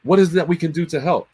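chirpy mock of an eager brand rep; mimicking the brand guy. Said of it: "he's like".

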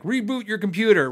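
curt tech-support voice; computer guy. Retold or imitated. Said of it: "the computer guys are always like".

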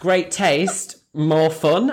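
slogan spelt out in two separate halves; lightly mock patient sales call; repeated promo pitch. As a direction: repeat it for someone who missed it. Repeating slogan to someone who missed it.

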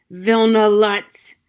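loud, slow shout of the name. Acted. Gloria shaking her fist at the ceiling, shouting his name. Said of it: "Again she leaped ... at the ceiling".

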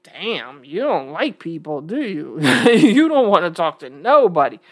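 low, hushed mock-judging viewer; imitating a viewer. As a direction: murmur it like a nosy follower poking fun. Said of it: "some of y'all might be like".

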